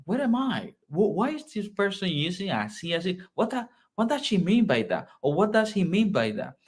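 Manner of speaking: a bewildered listener asking what you mean; confused Colombian. Retold or imitated. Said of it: "he will feel like".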